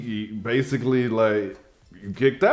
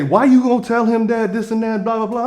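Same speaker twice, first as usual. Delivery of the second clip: much higher, louder put-on indignant voice; mocking the stripper; 11 semitones higher, 5 dB louder than usual. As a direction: mimic her outraged complaint, hammed-up. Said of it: "she had the nerve to get mad at me and say".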